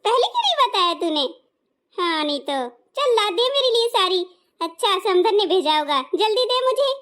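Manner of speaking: gleefully demanding the saree; excited mother-in-law. Acted. Mother-in-law hears sari, gets excited. (Sari सुनकर खुश, ऊँची उत्साहित सास)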